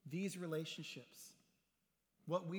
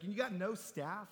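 mock disbelief; 4 semitones higher, 3 dB louder than usual. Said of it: "So kiddingly".

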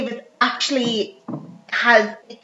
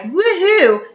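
cheer; 8 semitones higher, 3 dB louder than usual. Acted. Pawn shop owner cheering.

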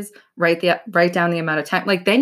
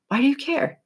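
incredulous repeat; 8 semitones higher than usual. Retold or imitated. Self-talk repeated twice.

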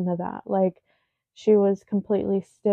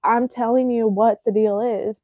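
retold exasperation, firm and louder; getting angry; 4 dB louder than usual. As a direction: press the point with mounting irritation. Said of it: "I was getting angry".

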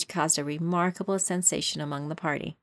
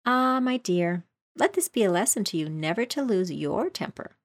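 put-on old crab mother; 3 semitones higher than usual. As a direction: lecture like a fussy old crab. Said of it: "an old crab".

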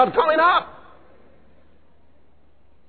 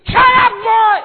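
sharp, much higher and louder command; stern shout; 11 semitones higher, 7 dB louder, slower than usual. Acted. Police officer shouting at the boy to stop: loud stern order. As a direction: bark it like a man of authority. Authority figure barking at boy.

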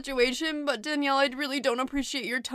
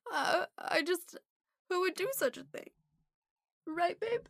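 fake crying; 4 semitones higher than usual. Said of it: "She's using her fake cry".

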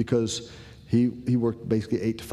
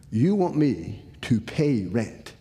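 slow disbelief; slower than usual. Retold or imitated. Son listing dad's demands.

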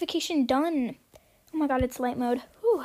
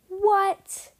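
surprised; 5 semitones higher, 5 dB louder than usual. Real, not acted. Reacts to ban message.

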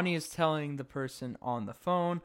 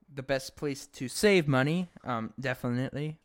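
sarcastic. Real, not acted. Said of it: "No sarcasm".

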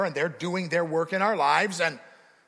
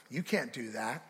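quiet accusation; 5 dB quieter than usual. Retold or imitated. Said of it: "Satan accuses you all the time of".

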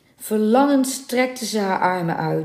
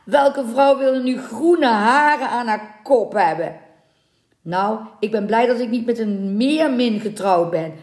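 higher-pitched sneering revulsion; disgusted mockery; 4 semitones higher, 3 dB louder than usual. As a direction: jeer with loud, theatrical disgust. Sailors jeering at captured mermaid.

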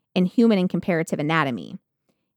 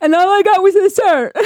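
whiny victim voice; 12 semitones higher, 10 dB louder than usual. Retold or imitated. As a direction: whimper like a pitiful plaintiff. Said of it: "I'd be like, at the trial".

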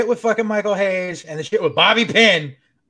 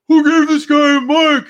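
much higher, loud incredulous yell; mock outraged shout; exasperated shout; 9 semitones higher, 9 dB louder than usual. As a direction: yell it in disbelief from ringside. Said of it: "Stephen Amell standing outside like".

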